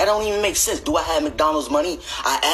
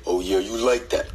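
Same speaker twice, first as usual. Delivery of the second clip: sultry voice; 5 semitones lower than usual. Retold or imitated. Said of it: "they voice change during sex".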